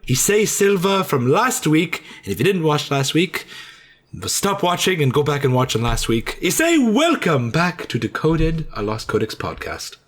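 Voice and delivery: a hint of high old grandma host; lightly voiced old grandma. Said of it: "if I properly lower my voice and make it nice and soft".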